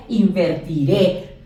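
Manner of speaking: "invertiré" said slowly with weight on the last é; stress on final É. Shown as a demonstration. Teacher repeating the future form for students, "invertiré" stressed on final é. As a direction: land firmly on the é ending "invertiré". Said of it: "con acento en la E".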